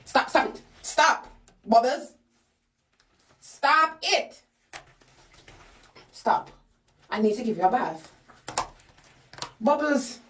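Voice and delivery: firm commands to a struggling dog; stop, stop, holding the dog still; restraining a pet. Real, not acted.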